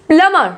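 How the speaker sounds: प्लमर as "plum-mer"; silent b demo. Shown as a demonstration. Teacher modelling plumber for learners, silent b. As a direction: go from m straight to the ending in प्लमर. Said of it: "प्लम्बर करके नहीं बोलेंगे".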